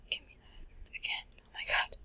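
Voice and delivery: under-breath whisper at the screen; muttered whisper. Real, not acted. Gamer muttering at the screen in a whisper. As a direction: mutter it to yourself.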